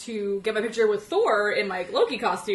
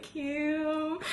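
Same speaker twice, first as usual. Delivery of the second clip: high, small retold squeak; shy fangirl voice, pitched up; starstruck squeak; 7 semitones higher than usual. Starstruck fan giving her name.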